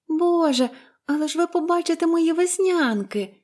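put-on high-pitched girlish dismay; dismayed sigh. A narrator's reading. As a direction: lament it like an embarrassed child. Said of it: "зітхнула вона". (засмучений дитячий вигук)

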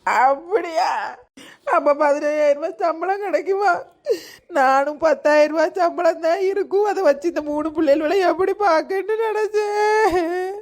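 sobbing words that break into a laugh, then back to tears; wife weeping to husband about the salary, laughing through tears; crying and laughing at once. Acted. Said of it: "அழுதுகிட்டும் சிரிச்சுக்கிட்டும் இருக்கா".

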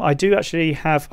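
squeezed out on a held breath; talking with breath held in; holding breath. Real, not acted. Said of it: "sorry, I'm still holding my breath".

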